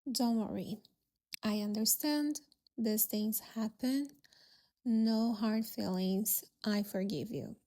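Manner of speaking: gently reassure, no hurry; calm. Acted. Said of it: "looked at you calmly and said".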